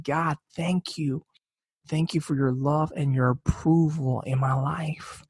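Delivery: slow, hushed thanks through happy tears; grateful weeping. Retold or imitated. Sam thanking God in the closet, slow tearful gratitude. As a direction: thank him gently, moved to tears. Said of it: "weeping in tears of happiness".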